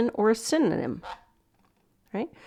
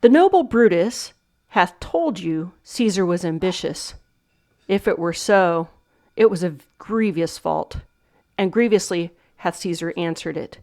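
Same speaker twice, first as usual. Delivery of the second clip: Shakespeare recitation. Shown as a demonstration. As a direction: read it out as a solemn verse line. Teacher reads monologue lines.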